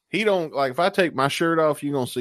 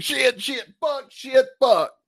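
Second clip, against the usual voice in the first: frustrated cursing; 11 semitones higher, 4 dB louder, slower than usual. Retold or imitated. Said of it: "I was going like".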